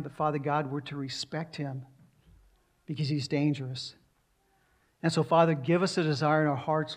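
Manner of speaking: earnest prayer voice over music; closing prayer. Acted. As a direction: pray for the congregation sincerely. Pastor leads closing prayer.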